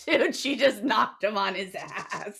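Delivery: slow, laughing retelling; laughing gossip. Pretend. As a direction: tell it while cracking up, drawn out. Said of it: "He's like, laughs".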